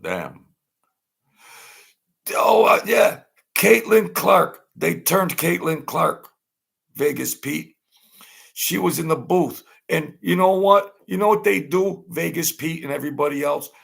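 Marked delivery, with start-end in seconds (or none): 2.3-13.7 high, loud worked-up rant; high, loud and fired up; excited outburst. Real, not acted. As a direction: blow up over the camera shots. Ranting about the camera on Caitlin Clark.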